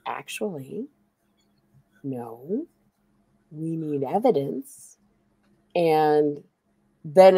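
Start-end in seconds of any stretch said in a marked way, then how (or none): 0.1-5.0 judge quote. Retold or imitated. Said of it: "the judge said".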